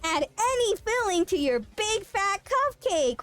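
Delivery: infomercial voice. Pretend. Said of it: "infomercial voice".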